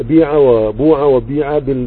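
slow ishmam: بيع وبوع وبيع blended vowels; إشمام بطيء; ishmam demo. Shown as a demonstration. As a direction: show the vowel shading in بيع, بوع and بيع slowly. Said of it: "بالإشمام".

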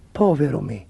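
low voice of self-pity; dismayed inner voice. A narrator's reading. Chancellor's horrified private thought.

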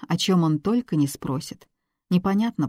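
usual speaking voice

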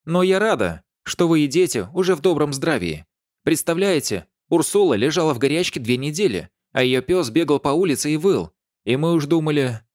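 put-on high, loud chattering old lady. A narrator's reading. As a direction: gush on like the old neighbour. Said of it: "тараторила она". (болтливая старушка)

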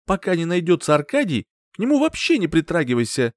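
angry order. A narrator's reading. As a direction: forbid him sharply.

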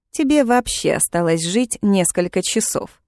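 ordinary delivery

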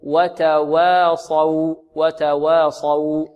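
slow, firm وتواصوا, both waws light around a heavy ص; correct light waws. Shown as a demonstration. Teacher demonstrating the right way, drawn-out وتواصوا. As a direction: stretch وتواصوا out with light waws and full saad. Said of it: "هكذا".

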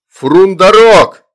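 high, drawn-out roar of the name; furious shout. A narrator's reading. Mother storms in at demon, furious shout. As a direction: yell the name in a frenzy. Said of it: "раздался бешеный крик".

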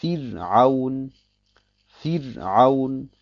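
Fir'aun mit hellem R nach dem i; helles Ra. Shown as a demonstration. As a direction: sprich das R in Fir'aun hell. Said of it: "dann wird das Ra hell ausgesprochen". (Fir'aun gedehnt, mit hell gefärbtem Ra)

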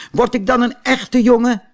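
put-on high, eager puppet boy voice; a wooden puppet boy who wants to be real; Pinocchio's voice. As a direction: Pinocchio pleading with the fairy to become a real boy. Pinocchio asks the fairy.

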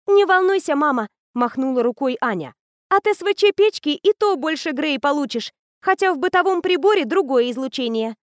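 put-on high, bright-eyed girl raving about a machine; eager teenage girl. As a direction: gush like a know-it-all teen. Anya voiced high.

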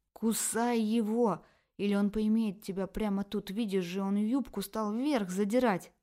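loud urgent bawling; yelling. Acted. Inner feminist urging Tanya to bite, loud yell. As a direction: bellow the warning. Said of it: "орала сос-феминистка".

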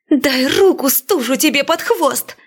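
high yelled curse. A narrator's reading. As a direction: scream it at the ghost. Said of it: "завопила я".

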